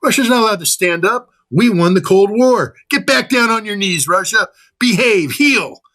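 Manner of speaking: high, sneering mock-scolding voice. America ordering Russia back to its knees, high mocking scold. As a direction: lord it over Russia like a master to a dog.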